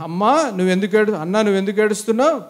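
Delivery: kindly husband's question at normal volume; nicely asked. Acted. Husband asking Hannah why she cries, nicely. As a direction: ask it nicely, without scolding. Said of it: "అక్కడ బాగా అన్నాడు".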